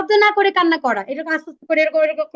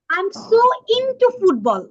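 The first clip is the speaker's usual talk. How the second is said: slow model sentence; 3 semitones higher, much slower than usual. Shown as a demonstration. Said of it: "আবার তুমি বললে".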